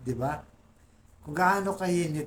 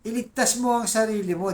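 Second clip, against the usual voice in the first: raised, louder jeering voice; mocking taunt; 8 semitones higher, 5 dB louder than usual. Religious leaders jeering at Jesus on the cross, mocking taunt. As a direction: jeer at him as the mocking leaders. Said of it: "na sabi".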